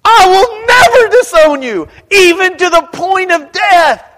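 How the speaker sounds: high, loud, insistent vow; emphatic insistence. Retold or imitated. Peter vowing loyalty to Jesus, high emphatic shout. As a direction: swear it with everything you have. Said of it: "Peter had insisted emphatically".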